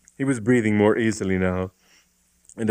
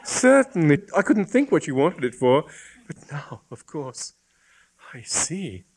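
put-on young woman voice; 6 semitones higher than usual. A narrator's reading. Hypatia voiced by narrator.

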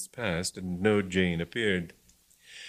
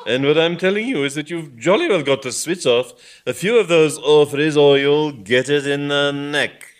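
angry lecturing; 6 semitones higher, 7 dB louder than usual. Acted. Bishop lecturing angrily.

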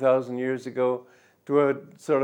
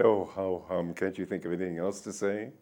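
mock blasé reply; 5 semitones lower, 4 dB quieter than usual. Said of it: "pretty blasé".

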